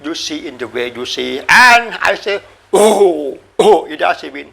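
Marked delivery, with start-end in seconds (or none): 2.7-3.9 rough attempt at a tiger's roar; imitated tiger roar. Shown as a demonstration. Teacher sounding out a tiger for listeners, mock roar. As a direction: give two brief mock tiger roars. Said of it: "a tiger".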